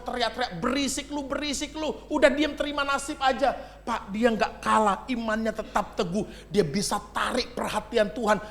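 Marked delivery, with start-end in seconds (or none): 0.6-3.5 scoffing crowd. Acted. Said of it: "Nggak usah kau teriak-teriak".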